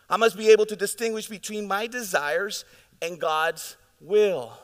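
preached hard the first time; emphatic. Real, not acted. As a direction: hammer the line out with force. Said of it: "This is so important, church".

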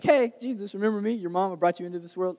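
a mock motherly reminder, starting high and falling; imitating a mom. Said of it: "where she's like".

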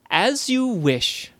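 bow politely as you say it. Acted. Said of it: "said Zoe politely".

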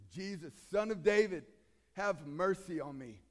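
a loud, pleading cry to Jesus. Retold or imitated. Blind beggar calls to Jesus from the roadside, loud plea. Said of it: "he cries out".

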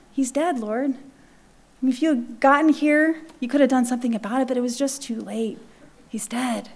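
soft, grieving plea that fades away; mild grieving lament to the Lord. Retold or imitated. Sister laments to Jesus, softly grieving.

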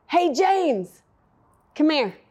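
a bright called-out "Hey, James, come here"; dad calling the kid over across the gym; calling the boy over. Retold or imitated. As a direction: call him over firmly but friendly. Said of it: "like that".

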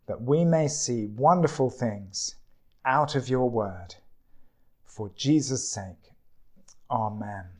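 measured, reverent opening prayer. Real, not acted.

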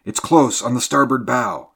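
high, loud urgent call; exclaiming. A narrator's reading. Ship's mate warning of sounds close by, exclaiming loudly. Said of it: "exclaimed the mate".

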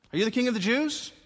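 high, loud, lifted question; questioning Pilate. Acted. Pilate demanding an answer from Jesus, high and loud. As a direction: press the prisoner with it.

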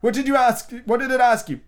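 high, loud indignant frog; affronted old frog; old frog arguing with Alice. A narrator's reading.

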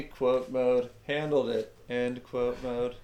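flat mechanical robot voice. Acted. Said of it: "did you try to sound like a robot doing that".

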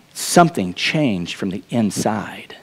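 slow, whispered, almost secret; hushed whisper. Acted. Preacher whispers to his congregation about inner change, hushed and slow. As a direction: let it fall to a breathy hush.

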